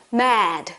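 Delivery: "mad" with a wide open "æ"; open vowel in mad. Shown as a demonstration. Teacher showing the vowel, open-jawed "mad". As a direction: drop the jaw fully for the vowel in "mad". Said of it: "이 턱이 딱 내려오게".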